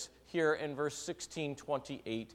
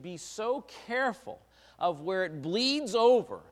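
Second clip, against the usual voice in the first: urgent preaching; 7 semitones higher, 8 dB louder than usual. Acted. Preaching rises again.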